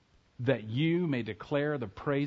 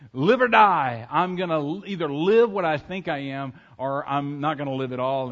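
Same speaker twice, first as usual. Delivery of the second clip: louder determined eaglet cry; defiant vow; 8 dB louder than usual. Acted. Eaglet on the coop roof vows to fly, louder. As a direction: declare it like a last stand. Eaglet resolves before jumping.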